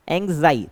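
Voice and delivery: second part जाई stressed in एंग्जाई. Shown as a demonstration. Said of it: "उसको हम ज़्यादा बोल रहे हैं".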